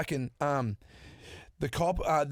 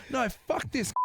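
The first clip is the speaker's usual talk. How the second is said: mock defiant; 10 semitones higher than usual. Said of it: "I'm going".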